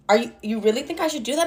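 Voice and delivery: hushed, quick disbelief; shocked. Retold or imitated. Client questioning therapist's advice, shocked and hushed. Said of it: "like, shocked".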